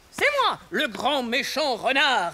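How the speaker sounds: slow boastful shout. Acted. Hen claims the fearsome fox role.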